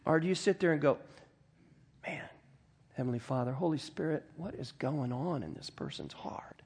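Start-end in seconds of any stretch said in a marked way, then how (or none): 2.0-6.6 softly murmured inner prayer, sinking to near-whisper; hushed prayer. Acted. Acted hushed prayer instead of reacting.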